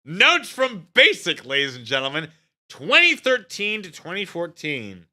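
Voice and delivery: loud, high, slow announcer voice; show announcement. Acted. Host opening his show segment, loud slow announcer. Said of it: "announces the video segment".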